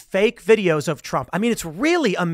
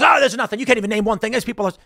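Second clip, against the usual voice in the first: dismissive scoff; 5 semitones higher, 6 dB louder, much faster than usual. Retold or imitated. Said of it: "And then he goes".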